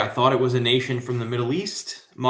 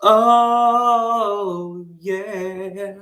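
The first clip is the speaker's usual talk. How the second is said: excited oh yeah; 9 semitones higher, 5 dB louder than usual. Real, not acted.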